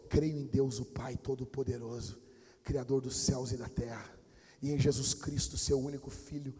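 low-pitched, solemn recital; creed recitation. Retold or imitated. Brother reciting creed at bedside after nightmare, low solemn recitation. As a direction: recite it steadily, line by line, low.

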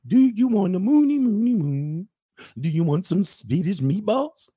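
high, lilting cartoon Swedish accent; mock Swedish accent. What people think Swedish women sound like, mock Swedish accent. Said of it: "you think Swedish gonna be like".

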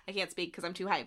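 overexcited, losing volume until barely audible; choked up with hype; too hyped to speak. Real, not acted. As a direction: voice dwindling as if near tears. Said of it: "It sounds like you're crying".

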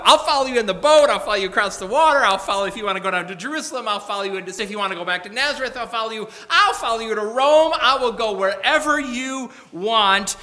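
loud, high, gushing vow; overeager promise. Acted. The scribe gushing his vow at Jesus, loud and high. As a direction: shout it like an overeager recruit. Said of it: "that's the way he comes".

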